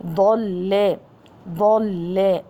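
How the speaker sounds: ضل with a full, heavy dad. Shown as a demonstration. Teacher demonstrating emphatic letters, heavy articulation of ضل. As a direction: make the first letter of ضل thick and dark. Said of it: "الضاد حرف مفخم".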